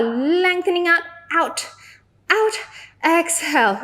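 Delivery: straining through a hard hold; shaking with effort. Real, not acted. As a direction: voice trembling from muscle strain. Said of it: "Ooh, my legs are shaking".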